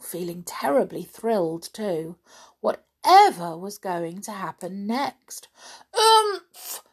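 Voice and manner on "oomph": high, loud bear grunts; booming bears. Acted. Big bears outside booming as they shove the door. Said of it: "boomed the big bears outside".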